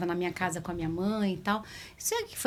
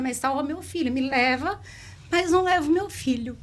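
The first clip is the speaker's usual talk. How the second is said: raised, louder pleading prayer; desperate plea; 5 semitones higher, 5 dB louder than usual. Retold or imitated. Mother begging God to take her instead, desperate plea. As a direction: offer yourself in place of the child. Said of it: "eu falei que eu me emociono".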